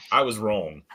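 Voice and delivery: breathy whispered admission through a laugh. Real, not acted.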